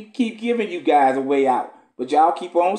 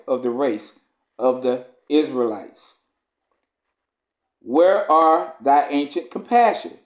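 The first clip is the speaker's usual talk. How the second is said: measured, solemn scripture reading. Acted. Preacher reading Esdras to the congregation, solemn. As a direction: read the old text with gravity.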